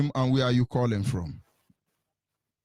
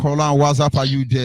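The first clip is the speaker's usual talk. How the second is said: to someone hard of hearing; 4 dB louder than usual. Real, not acted. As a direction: raise your voice to reach a bad line. Calling out to silent caller.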